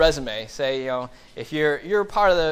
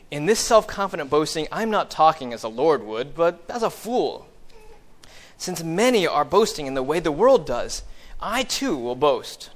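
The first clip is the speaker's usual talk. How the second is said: mildly sarcastic scripture reading. Acted. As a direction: read it aloud with pointed mock politeness. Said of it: "in a very sarcastic voice".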